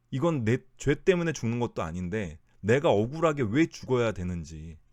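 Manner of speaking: scapegoat crying out at its unjust death; a half-voiced desperate cry; mock anguished yell. Preacher voicing the dying scapegoat, mock yell. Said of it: "막 소리를 지르면서".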